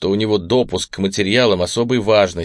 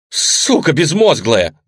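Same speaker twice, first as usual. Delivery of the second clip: furious shouted curse, slow and louder; yelling; 6 semitones higher, 6 dB louder, slower than usual. A narrator's reading. Wounded man roaring at the woman who shot near him, furious yell. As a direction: bellow it after nearly being shot. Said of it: "заорал он".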